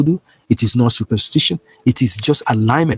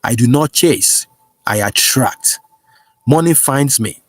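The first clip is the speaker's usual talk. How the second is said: prayer declaration. Acted. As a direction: declare each line for the flock to repeat. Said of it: "Say this with me right now".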